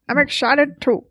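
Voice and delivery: put-on lightly old-timey announcer voice. Shown as a demonstration. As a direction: say it like an old-time radio star. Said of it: "she's going to an old-timey voice".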